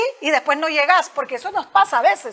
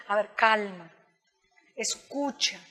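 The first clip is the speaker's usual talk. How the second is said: calming self-talk; 3 semitones lower, 3 dB quieter, slower than usual. Retold or imitated. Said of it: "de repente recuerdo".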